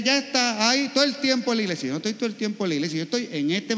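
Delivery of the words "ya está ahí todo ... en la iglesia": a snide neighbour's dig; mock complaint about the priest. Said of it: "vienen y le dicen".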